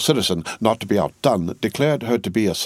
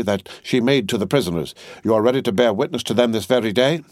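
mild sternness; 3 semitones higher than usual. Acted. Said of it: "said Madame Defarge sternly".

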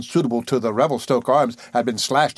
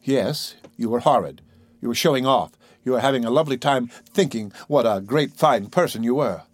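calm. Acted. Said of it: "She said calmly".

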